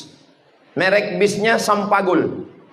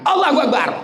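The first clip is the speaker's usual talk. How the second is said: mock rousing cry; 8 semitones higher, faster than usual. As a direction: cheer it to laugh off the complaint. Mock cheer at child's complaint.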